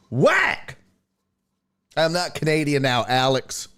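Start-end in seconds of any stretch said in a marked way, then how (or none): 0.1-0.8 exclaimed. Real, not acted. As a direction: spit out the word in disgust. Exclaiming at bad candy.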